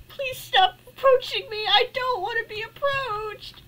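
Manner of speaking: high, tearful plea; real crying plea; pleading fear. Real, not acted. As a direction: beg the creature to back off. Spider approaching.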